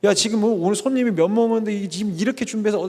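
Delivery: mildly acted angry boss berating servants; a touch of a flustered banquet director's telling-off; mock scolding. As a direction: press them for an answer, hurried and cross. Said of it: "막 하인들한테 막 다그치고 그랬겠죠".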